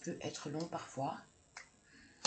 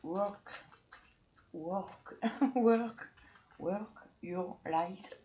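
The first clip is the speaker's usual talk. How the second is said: self-mocking English accent, pitched up with laughs; 5 semitones higher, 5 dB louder, much slower than usual. Shown as a demonstration. Tarot reader reads an English card title in a laughing English accent. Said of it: "pitoyable accent anglais".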